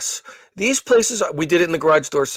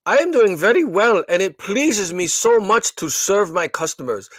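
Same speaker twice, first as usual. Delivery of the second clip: imitating a robotic call-centre agent, higher and half-whispered; mock customer-service robot, slow and pitched up; 4 semitones higher than usual. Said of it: "like a robot".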